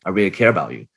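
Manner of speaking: a tender, sympathetic demo; caring voice. Shown as a demonstration. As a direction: sound like you truly care. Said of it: "the sympathetic caring one".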